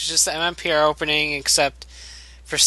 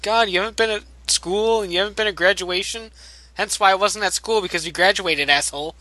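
higher mock scolding rant; angry friend; 4 semitones higher than usual. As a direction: chew him out like a friend.

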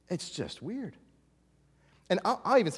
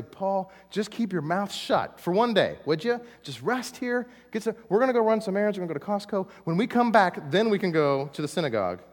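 Timothy and Silas; 4 semitones higher than usual. Retold or imitated. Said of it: "Timothy and Silas say".

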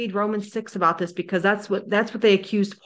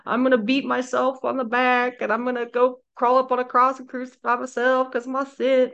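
mock pious self-punisher; 5 semitones higher than usual.

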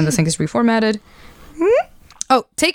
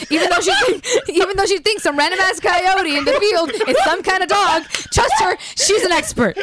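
laughing through it; 6 semitones higher than usual. Real, not acted.

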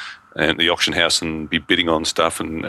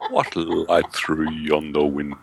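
hammy stage actor; slower than usual. Pretend. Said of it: "Shakespeare quote, mock recital".

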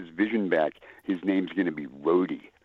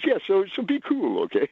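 worried warning; 10 semitones higher than usual. Retold or imitated. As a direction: ask them to behave, a bit anxious. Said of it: "He goes".

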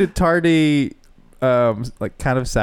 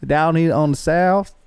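put-on hillbilly accent. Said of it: "my hillbilly accent is".

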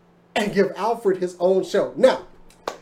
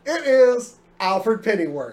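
laughing; 3 dB louder, slower than usual. Real, not acted. Laughing reveal of the show.

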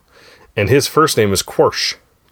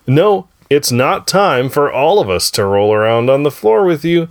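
building excitement; 5 semitones higher, slower than usual. Acted. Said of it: "show intro buildup".

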